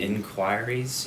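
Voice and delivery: "Inquiries?" said slowly, in-KWY-ree-z; "Inquiries?" drawn out as a question; questioning correction. Shown as a demonstration. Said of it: "that's not how it's pronounced".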